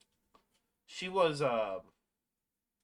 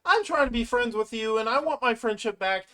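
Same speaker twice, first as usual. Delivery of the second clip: acted frustration, raised and a little louder; fed up; 8 semitones higher, 4 dB louder than usual. Ribbit confronts Jax over their friendship, fed up. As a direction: imitate a friend who has had enough. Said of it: "she just had enough".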